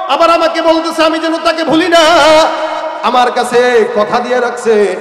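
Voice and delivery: loud, drawn-out preacher's lament; retold tearful prayer. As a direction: cry out to God in sermon style, without sobbing. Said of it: "চোখের পানি ছেড়ে কাঁদে আর কয়". (কান্নার মোনাজাতের নকল, উঁচু গলায়)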